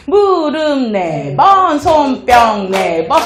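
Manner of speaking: slow, drawn-out counting cadence; measured sing-song exercise cue; rhythmic instruction. Shown as a demonstration. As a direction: stretch each word to the clapping beat. Teaching a clap routine by rhythm.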